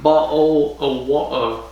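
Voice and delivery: bad British accent. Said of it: "That's bad accent".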